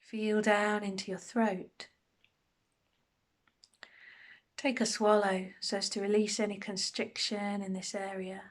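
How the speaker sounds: unhurried meditation guide, long pauses between phrases; guided meditation. Acted. Meditation teacher settling listeners into a body scan, calm guided delivery. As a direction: guide them gently through a body scan, pausing often.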